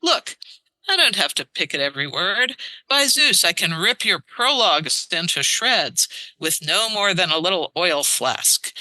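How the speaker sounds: put-on rip into him like a scornful old poet; Aeschylus arguing. Aeschylus mocking Euripides' prologues, lightly hammed-up scorn. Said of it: "So then Aeschylus says".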